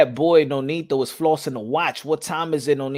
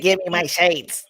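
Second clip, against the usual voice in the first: laughing quote; 3 semitones higher than usual. Retold or imitated. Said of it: "He said".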